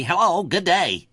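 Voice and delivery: put-on drawn-out, booming old-time radio greeting; Paul Harvey. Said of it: "how many people can do Paul Harvey?".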